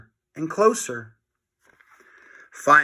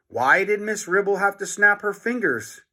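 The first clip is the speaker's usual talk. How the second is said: distressed cry; 6 semitones higher than usual. A narrator's reading. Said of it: "cried Harold".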